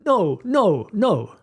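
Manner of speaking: sharp high repeated no; yelled no. Shown as a demonstration. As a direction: yell it like a startled parent. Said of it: "You could yell".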